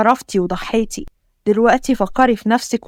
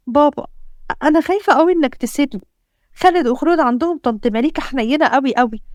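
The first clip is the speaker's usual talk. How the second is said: lightly voiced little girl, higher, anxious and pleading; a hint of a scared daughter begging dad; frightened child; 4 semitones higher than usual. Daughter pleads with her father.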